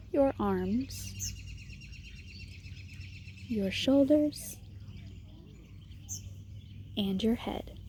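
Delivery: measured meditation guide, long pauses between phrases; guided meditation. Acted. Meditation leader guiding listeners to settle and notice their breath, guided meditation. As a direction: lead them gently through it, leaving space after each instruction.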